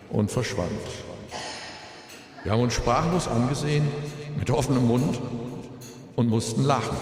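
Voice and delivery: grieving father's eulogy, composed; at a graveside. Real, not acted. Eulogy for son at funeral.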